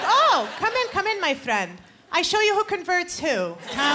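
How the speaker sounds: warm, eager dad voice with a high opening; playing her father inviting them in; dad welcoming Jehovah's Witnesses. A daughter imitating her dad luring Witnesses inside.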